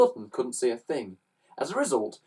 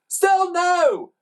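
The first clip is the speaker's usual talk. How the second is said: high, loud defiant bark; 6 dB louder than usual. A narrator's reading. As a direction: bark the denial back. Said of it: "barked Mister Glutton".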